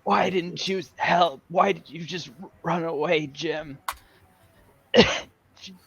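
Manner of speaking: weak, broken reproach with coughs; dead friend. Pretend. Dead friend reproaches Jim for running away, halting and weak. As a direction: play the abandoned dying man, halting. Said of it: "pretending to be his dead friends".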